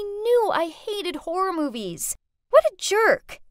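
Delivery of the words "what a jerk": loud, high exclamation of disgust; indignant outburst. Acted. Narrator fuming at her ex's prank, indignantly. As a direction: spit out the insult in outrage.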